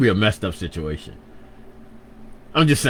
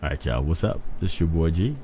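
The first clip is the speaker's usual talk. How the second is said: low smooth radio DJ voice; 4 semitones lower, 5 dB quieter than usual. Shown as a demonstration. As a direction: drop into a low radio announcer voice. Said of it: "my radio voice? That's usually lower".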